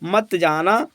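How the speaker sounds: "मत", a short pause, then "जाना"; slow "मत जाना" with a small gap after "मत"; slight pause between words. Shown as a demonstration. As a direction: separate "मत" from "जाना" with a brief pause. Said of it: "थोड़ा विराम है".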